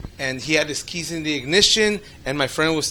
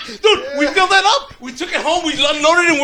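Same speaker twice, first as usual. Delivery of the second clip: laughing; 9 semitones higher, 6 dB louder than usual. Real, not acted. Still laughing after the joke.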